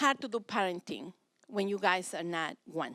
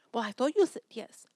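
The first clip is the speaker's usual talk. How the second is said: voiceless whispered answer; whispered reply; 4 semitones higher than usual. Acted. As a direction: whisper back conspiratorially. Spouse whispers back.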